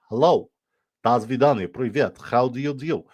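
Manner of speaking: high-pitched hammed-up Russian accent. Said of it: "super good Russian accent".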